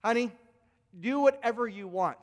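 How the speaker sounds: mock wife's icy permission. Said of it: "and says these words".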